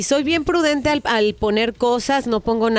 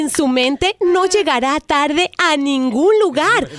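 telemarketer voice. Acted. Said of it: "es una broma telefónica".

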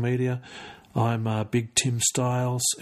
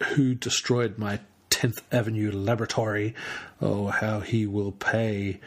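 villain vow. Retold or imitated. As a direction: savour the threat like a comic baddie. Villain's vow read from comic.

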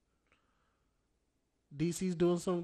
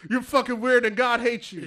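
shouted insult, pitched high; loud mock yell; 7 semitones higher, 12 dB louder than usual. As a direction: yell it like a street preacher.

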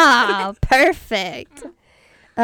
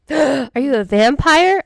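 mock shock; 3 semitones higher, 5 dB louder than usual. Mock gasp at garlic answer.

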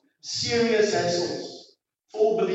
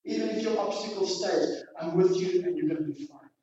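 still small voice; 2 semitones lower, 5 dB quieter than usual. Acted. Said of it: "His voice was a still small voice".

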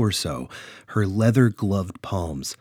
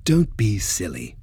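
scoffing. Acted. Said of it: "Freya scoffed".

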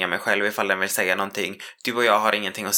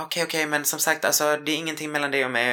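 high, hasty reassurance; flustered mock backpedal; 5 semitones higher than usual. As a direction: scramble to calm things down. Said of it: "Och hon bara". (hög, stressad försäkran)

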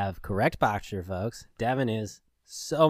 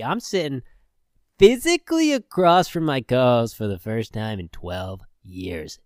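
smooth podcast host voice; lightly done announcer delivery; radio voice. Acted. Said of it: "I'm in quote-unquote radio voice".

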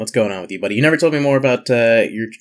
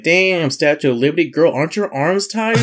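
retold wisecrack; 5 semitones higher than usual. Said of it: "And I was like".

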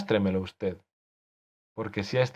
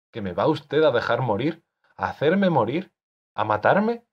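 alarmed; 4 semitones higher, 4 dB louder than usual. Acted. Augusto alarmed at his death.

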